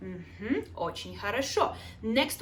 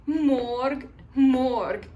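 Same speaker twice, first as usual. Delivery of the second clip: loud drill; 5 dB louder than usual. Shown as a demonstration. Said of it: "let's say it three times".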